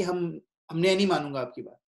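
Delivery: quick, dismissive mock refusal; stubborn refusal. Devotee wrongly refusing his teacher, quick and dismissive. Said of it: "ये नहीं बोलना चाहिए कि".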